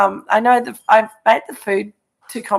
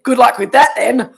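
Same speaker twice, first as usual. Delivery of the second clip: sarcastic; 4 semitones higher, 7 dB louder than usual. Retold or imitated. Friend mocks her travel plan.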